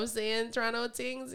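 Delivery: put-on a light Toronto slang accent, slow. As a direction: say it like a Toronto local, relaxed. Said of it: "the Toronto accent".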